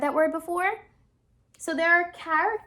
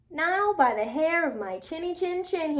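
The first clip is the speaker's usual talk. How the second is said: lightly raised wolf roar; a hint of a roaring wolf; mild mock roar; 4 semitones higher than usual. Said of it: "he roared".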